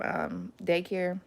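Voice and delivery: ordinary delivery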